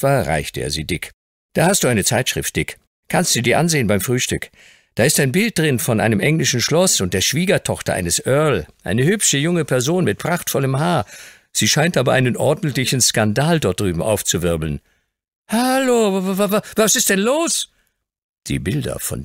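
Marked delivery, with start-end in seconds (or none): 1.5-14.8 lightly voiced, chatty young lawyer; a lawyer chatting to the shoeshine boy; friendly young lawyer. Young lawyer speaks to Dick. 15.5-17.7 put-on higher, stuttering boy's voice; stammering shock. Dick shocked by the picture.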